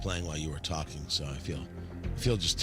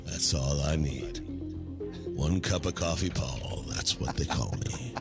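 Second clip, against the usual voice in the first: low unhurried voice; 4 semitones lower than usual. Pretend. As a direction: lay on a lazy deep radio charm. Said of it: "This is my normal voice, ladies".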